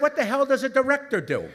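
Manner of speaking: hammed-up incredulous punchline; mock disbelief.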